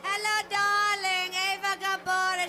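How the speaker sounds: breathy Hungarian vintage purr; slow, breathy darling-drenched Hungarian; Eva Gabor voice. Pretend. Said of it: "does she do an imitation of you".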